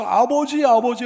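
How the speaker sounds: acted anguished appeal; imitated tearful calling. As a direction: call on Father as if pleading through tears. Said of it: "하고 부르면서 눈물을 흘리는 거예요".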